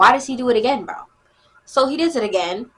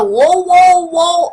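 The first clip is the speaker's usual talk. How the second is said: retold alarm, loud and higher; startled whoa; 7 semitones higher, 7 dB louder, much slower than usual. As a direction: blurt a startled whoa, reenacting it. Startled by hand on back.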